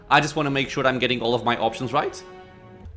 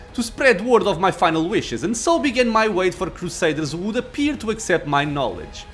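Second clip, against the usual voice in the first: arrogant lich. Acted. Lich speech.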